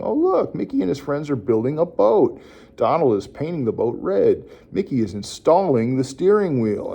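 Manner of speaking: lightly animated commentary, high on "Oh, look"; self-talk narration. Shown as a demonstration. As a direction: describe the cartoon aloud for a child. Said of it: "you're kinda describing what you're watching".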